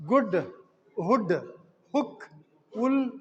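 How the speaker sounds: "Good, hood, hook, wool" each with a short oo. Shown as a demonstration. Teacher giving examples of a short sound, short oo. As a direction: list the words one by one, keeping every oo brief. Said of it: "a short sound".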